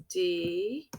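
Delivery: "delay" with first syllable held and rising, long pause, then the second; two separate syllables. Shown as a demonstration. Teacher shows the word has two syllables, slowly split. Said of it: "it's two syllables".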